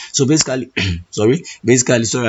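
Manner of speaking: hoarse, clearing a lost voice. Real, not acted. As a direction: push through a hoarse, strained voice. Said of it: "I lost my voice".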